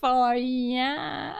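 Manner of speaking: giggling through a Southern for ya; laughing Southern accent. Real, not acted. Player laughs at her own accent, breaking. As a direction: crack up mid-drawl. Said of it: "I love doing accents".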